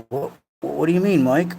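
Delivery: puzzled questioner, lilting up at the end; lightly put-on confused voice, stammered question; Appy. Streamer imitates a wondering chat friend, puzzled impression. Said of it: "That's my Appy impression".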